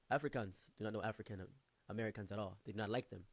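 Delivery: put-on measured African accent; imitated African friend. African friend explaining to the teller, imitated African accent. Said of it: "My African friend explained to me".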